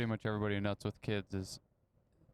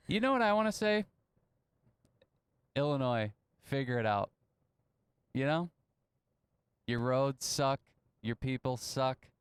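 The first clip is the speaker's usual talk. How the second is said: mock rant; 3 semitones higher than usual. Real, not acted. Ranting at Illinois drivers.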